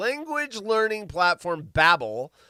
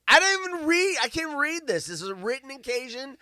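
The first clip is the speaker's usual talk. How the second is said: high-pitched exasperated protest; 9 semitones higher than usual. Real, not acted. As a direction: give up on reading it, pitch shooting up. Gives up on hard text.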